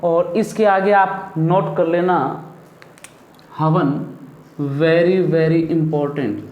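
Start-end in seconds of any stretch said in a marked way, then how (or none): 4.6-6.5 very drawn out and stressed, important said slowly; emphatic warning. Shown as a demonstration. Teacher warning pupils about an exam question, slow emphasis. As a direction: lean hard on very, very important. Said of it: "क्योंकि परीक्षा में कई बार ये पूछा".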